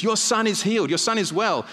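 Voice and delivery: good-news announcement. Acted. Servants telling the father his son lives, excited.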